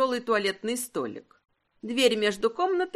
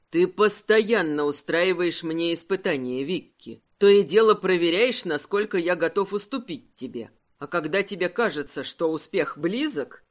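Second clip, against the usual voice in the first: a hint of a grave husband, lower; lightly voiced husband, lower and serious; 5 semitones lower than usual. Husband reproaching wife for testing him, lightly lower and serious. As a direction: say it low and in earnest.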